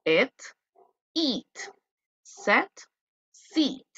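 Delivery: teacher comparing vowel pairs for the class; E versus I pairs. Shown as a demonstration. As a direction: contrast E and I word by word.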